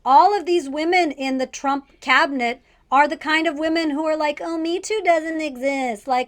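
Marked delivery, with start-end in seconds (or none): 4.4-6.1 put-on airy dumb girl voice; breezy ditzy white girl. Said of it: "Love her white girl voice".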